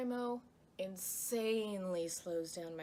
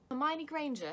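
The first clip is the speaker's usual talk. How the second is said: high, loud British schoolgirl impression; Hermione Granger; 6 semitones higher, 7 dB louder than usual. Shown as a demonstration. Vlogger retrying a poor impression, hammed-up British schoolgirl voice. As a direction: push the British character voice higher and louder. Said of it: "That wasn't actually a very good Hermione".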